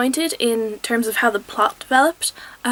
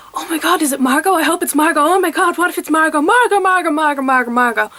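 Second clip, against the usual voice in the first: high, louder, giddy chanting of the name; gushing fangirl hope; 5 semitones higher, 3 dB louder than usual. Retold or imitated. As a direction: squeal inwardly, hoping it's her. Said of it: "my brain was going".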